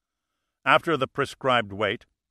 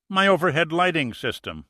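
higher, indignant outburst; 6 semitones higher, 4 dB louder than usual. A narrator's reading. Mine owner complaining to the sheriff, indignant and raised. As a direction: protest as if personally robbed. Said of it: "Marquez replied indignantly".

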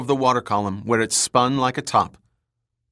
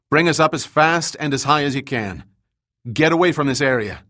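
raised urgent voice; urgent command; 4 semitones higher than usual. Acted. Austin urging the pilot.

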